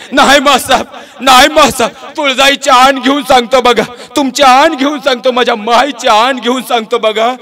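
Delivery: high, crying voice swearing an oath; tearful vow. Acted. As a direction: swear it through tears. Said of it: "काय रडतो बाईसारखा?". (रडत रडत शपथ घेणारा आवाज)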